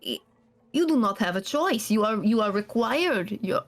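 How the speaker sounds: a hint of a cold, bitter scholar; bitter NPC scolding his runaway charge; a hint of clipped anger at the runaway; stern NPC rebuke. GM voices NPC.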